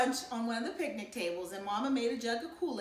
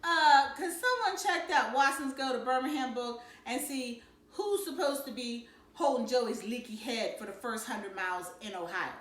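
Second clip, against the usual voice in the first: mock-polite; 3 semitones higher, 4 dB louder than usual. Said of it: "Byron decided to be cute".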